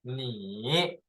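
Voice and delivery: 你 in full dipping third tone; third tone alone. Shown as a demonstration. Teacher sounding out the first word, full third tone. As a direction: say 你 alone, drawn through its dip. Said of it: "we will accent the first word".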